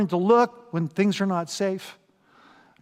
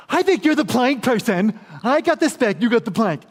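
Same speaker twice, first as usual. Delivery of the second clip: higher, louder accusing spouse; mock arguing spouse; 3 semitones higher, 4 dB louder than usual. One spouse accuses the other in mock argument. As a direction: point the finger playfully. Couple arguing over the plank.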